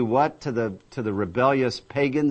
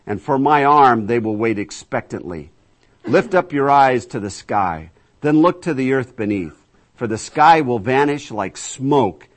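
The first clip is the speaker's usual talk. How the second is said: scripture proclamation; 5 dB louder than usual. Acted. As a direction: proclaim it as God calling his people. Reads scripture as God speaking.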